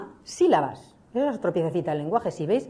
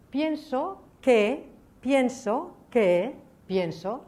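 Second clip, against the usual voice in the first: stretched demo; 6 semitones higher, 3 dB louder, much slower than usual. Shown as a demonstration. Demonstrating recursive embedding.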